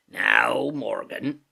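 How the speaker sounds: loud, stern summons in sailor voice; Silver, very stern. A narrator's reading. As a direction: call him to account. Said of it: "said Long John very sternly".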